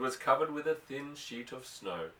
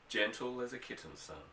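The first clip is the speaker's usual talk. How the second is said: a gentle, softer father's reply; softer note; 6 dB quieter than usual. Acted. Father reassuring his son about the filly, softly. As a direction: ease the rancher's voice down, tender. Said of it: "with a softer note than unusual in his voice".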